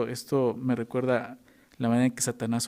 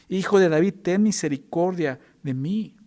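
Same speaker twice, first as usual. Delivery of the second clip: crying out; 4 semitones higher, 4 dB louder than usual. Retold or imitated. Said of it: "él clamaba mucho más".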